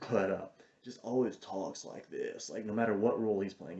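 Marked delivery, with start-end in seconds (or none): 0.8-2.5 a hint of a slow stoner voice; lazy, stretched-out imitation of a stoned actor; stoned Jake Busey. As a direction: lightly drag it out like you're baked. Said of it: "he's stoned off his ass".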